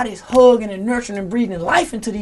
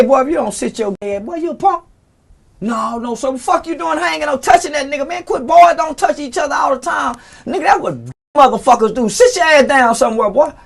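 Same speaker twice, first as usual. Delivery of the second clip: mock teacher scolding; 5 semitones higher than usual.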